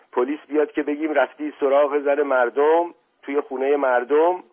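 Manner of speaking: indignant scolding. Acted. Uncle rebukes man for chasing wives, indignant scolding.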